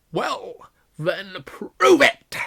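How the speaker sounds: loud, slow dare; triumphant challenge. Acted. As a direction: drag out prove it. Hagrid challenges.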